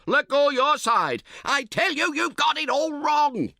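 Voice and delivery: very high, loud, slow roar. Acted. Camper roars at his tentmate to let go, very loud. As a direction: roar it at him across the ropes. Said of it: "you roar".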